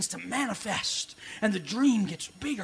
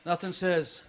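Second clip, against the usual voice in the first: sarcastic aside; 3 semitones lower than usual. Acted. Pastor mocking Christian bookstores to the congregation, dry sarcasm. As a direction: tease the church merchandise. Sarcastic comic bit, softer.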